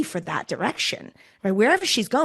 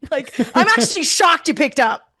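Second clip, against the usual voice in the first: much higher and louder, gushing over the name; very excited; 8 semitones higher, 6 dB louder than usual. Shown as a demonstration. Recruiter greeting a client on the phone, much higher, louder and gushing. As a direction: burst out thrilled to finally reach her. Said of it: "I immediately get very excited".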